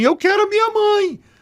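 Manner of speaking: mock sudden very high crying shout. Speaker retells crying out mid-catharsis while sobbing, retelling a shout. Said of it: "do nada eu soltei um grito e falei assim".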